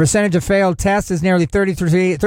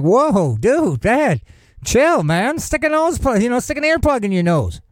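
laid-back stoner voice; 5 semitones higher than usual. Retold or imitated. Neighbor replies on phone.

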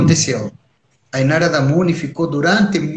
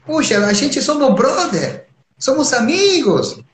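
a god pouting at a friend who ate it all; Shiva complaining; 11 semitones higher than usual. Acted. (Shiva reclamando com Narada, voz bem aguda e chorosa)

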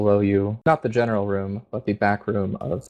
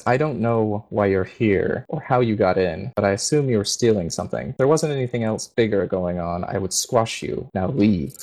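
cold threatening paladin. Acted.

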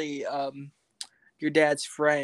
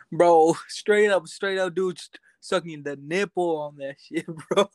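frat bro; 2 semitones higher, 5 dB louder than usual. Retold or imitated. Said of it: "my friend Corey said this".

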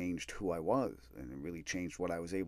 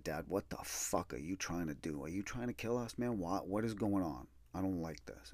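hushed urgency; 6 dB quieter than usual. Retold or imitated. Whispered argument in store.

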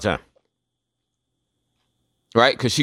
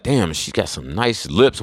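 mock admiring; 4 semitones lower, slower than usual. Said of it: "you'll be like".

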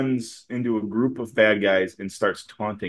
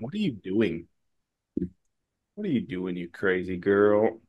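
put-on softer, slowing on crazy girl; quiet mock disbelief; 3 semitones lower, 7 dB quieter than usual. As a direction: mutter it in disbelief. Mocking Nona's holding the phaser.

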